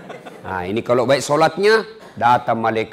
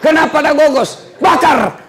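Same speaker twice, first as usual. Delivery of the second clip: baffled angel; 12 semitones higher than usual. Acted. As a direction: yell in confusion at the banana leaf. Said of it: "datang malaikat".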